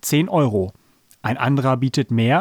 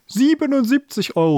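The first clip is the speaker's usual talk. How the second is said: very high, sudden cry; shouted bid; 12 semitones higher than usual. A narrator's reading. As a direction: burst in with a rival bid. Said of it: "rief da der dicke Mann".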